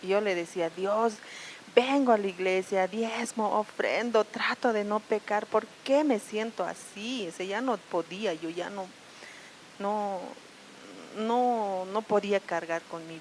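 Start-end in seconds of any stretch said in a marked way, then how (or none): 0.7-7.3 gritando a Dios. Retold or imitated. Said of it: "empecé a gritar a Dios".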